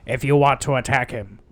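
loud, hammed-up villain command; Willem Dafoe. Imitating the Green Goblin's line to Harry, loud mock-villain. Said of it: "the line from the first movie where they go".

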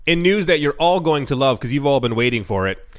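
dry, mock-enthusiastic tease; lightly sarcastic news intro. Real, not acted. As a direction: oversell the news with understated sarcasm. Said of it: "That was sarcasm".

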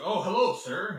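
a hammed-up stiff host voice; mock formal hello; imitating actor. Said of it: "And he's like".

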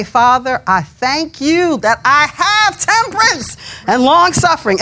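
slow, straining through gritted teeth; strained prayer. Shown as a demonstration. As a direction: drag each word out as if pulling at it. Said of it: "say it like that, like I'm really pulling at it".

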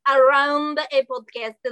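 AROUND stretched as a wrong option, mock Russian; "around" drawn out, Russian-accented; stress on AROUND. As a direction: lean slowly on the word AROUND.

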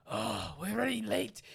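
lightly voiced cartoon thief; slow, lightly acted grumble; Simpsons thief. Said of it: "They go to Paris, and there's a couple of thieves".

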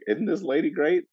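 high, besotted gushing; naive prince voice. Retold or imitated. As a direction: gush like a dim lovestruck prince. Voicing besotted prince Rillian.

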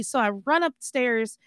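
usual speaking voice

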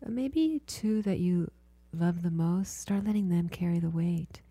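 healer guiding a client through body listening, hushed and soothing; guided meditation. Acted.

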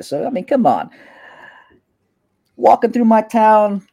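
a hint of a swaggering street boss; smug gang boss. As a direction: Kalen sizing up a rival in his turf. Kalen threatens Tower.

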